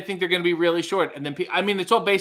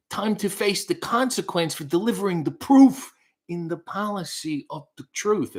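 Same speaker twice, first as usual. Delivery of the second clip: higher-pitched theatrical recitation; dramatic reading; 4 semitones higher than usual. Shown as a demonstration. Reading song lyrics on a viewer's request, dramatic recital. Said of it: "wants a dramatic reading of a song".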